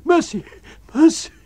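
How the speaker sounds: shrill, desperate pleading scream; wild scream. A narrator's reading. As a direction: scream for mercy. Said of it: "a wild scream of".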